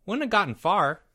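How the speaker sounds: a hint of a young boy chiming in; schoolboy role. Timmy adding to the boys' theory, lightly voiced boy. Timmy's line acted in story.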